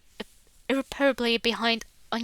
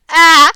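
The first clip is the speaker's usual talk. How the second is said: loud, higher yelp of shock; sharp startled gasp; 4 semitones higher, 19 dB louder than usual. Acted. Max catching himself in a sudden loud gasp. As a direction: jolt at your own thought.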